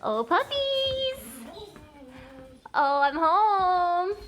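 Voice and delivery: high squeal at the dogs; excited dog greeting. Real, not acted. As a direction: squeal with joy at the puppies.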